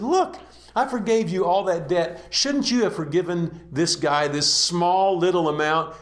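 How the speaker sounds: sharp high 'Look', then stern reproach; rebuking king. Acted. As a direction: scold the ungrateful servant.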